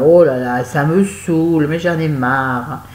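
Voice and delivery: mock fed-up moan, slow and drawn out; clowning complaint. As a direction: ham up the grumbling like a clown. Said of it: "un peu le clown, et en disant".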